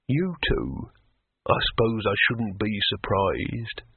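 low, slow sea troll voice. A narrator's reading.

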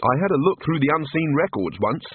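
mildly glum, slightly lifted voice; a touch of moroseness; morose. Acted. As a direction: say it with understated gloom. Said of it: "said Rincewind morosely".

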